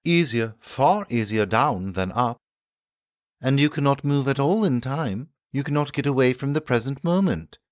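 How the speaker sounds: the doctor pressing his host with objections; the medical man objecting. Acted. Medical man argues back.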